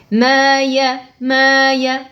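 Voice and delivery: "ma ya" with a clear consonant y, not lengthened. Shown as a demonstration. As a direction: stress the y of "ya". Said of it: "Le ya ici, je dois le lire".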